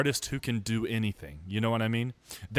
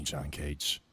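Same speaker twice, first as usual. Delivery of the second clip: soft whisper-like call; 9 semitones lower, 7 dB quieter than usual. Pretend. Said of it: "whisper to me".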